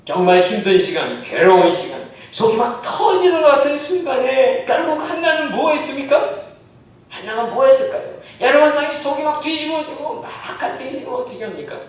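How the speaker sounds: loud, high, impassioned sermon delivery; full-force preaching. Acted. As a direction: press the question on the congregation. (힘있게 외치는 설교)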